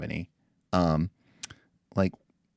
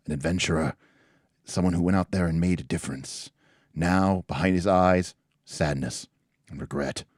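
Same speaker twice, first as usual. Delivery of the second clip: game master narration. Acted. Game master setting a tavern scene for players, measured narration.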